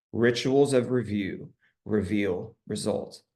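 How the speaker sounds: slow repeat, spaced out word by word; slow and deliberate. Shown as a demonstration. Coach repeats a favorite saying for the group, slowly. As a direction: let each phrase land with a pause. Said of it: "I'll say it slowly".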